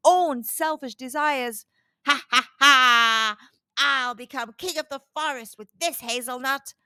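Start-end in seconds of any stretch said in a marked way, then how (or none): 2.1-6.7 hammed-up evil fox laughing. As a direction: gloat like a greedy fox. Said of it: "roared Nibbles".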